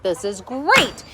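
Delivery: slow, deadpan this is great; weary mock cheer; sarcastic. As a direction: drag it out, dry and fed up. Third repeat after broken promises.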